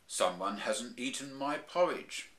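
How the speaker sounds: a slow, hint of a gruff papa bear; lightly voiced dad bear, unhurried; Daddy Bear voice. Narrator voicing Daddy Bear at the table, lightly voiced.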